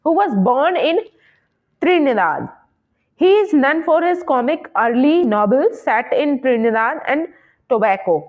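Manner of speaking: slow, careful dictation of an exam question; unhurried teacher reading the question. Acted. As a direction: read it out word by word for students. Reads fact slowly.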